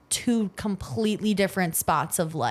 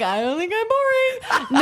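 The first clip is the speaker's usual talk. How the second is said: mock offended; 13 semitones higher than usual. Mock protest about being boring.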